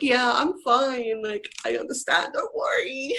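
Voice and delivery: drawn-out, put-on "I'm okay" voice; pretending to be fine. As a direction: act out brushing off the hurt, lifting at the end. Retells hiding tears during the breakup.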